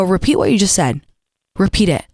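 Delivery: measured, condescending demand; coolly daring them to repeat it. Shown as a demonstration. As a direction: talk down to them, firmly. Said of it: "be so condescending".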